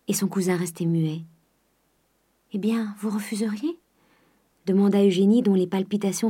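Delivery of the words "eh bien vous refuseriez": soft whispered worried question; anxious whisper. Acted. Eugénie fears Charles will refuse, anxious whisper. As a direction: whisper it, afraid of a no.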